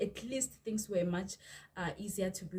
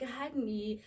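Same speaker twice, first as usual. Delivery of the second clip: exasperated; 4 semitones higher than usual. Retold or imitated. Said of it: "And I was like".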